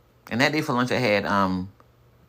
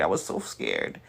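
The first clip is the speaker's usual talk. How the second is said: quiet; 4 semitones lower, 8 dB quieter than usual. Retold or imitated.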